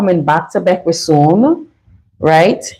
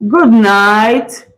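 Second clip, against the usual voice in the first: imitating the lady. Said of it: "how lady said?".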